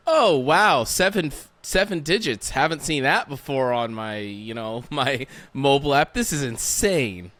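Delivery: loud, high mock astonishment at the balance; amazed. Interviewer playing a new millionaire checking his app, amazed. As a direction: gasp it out like you can't believe the number. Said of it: "you're like".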